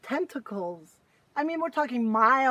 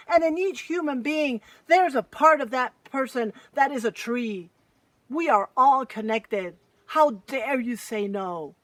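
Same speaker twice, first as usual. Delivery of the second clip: louder, angry mountain scolding the trees; a furious giant scolding his children; 4 dB louder than usual. Acted. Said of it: "He was so furious. He just exploded out and said".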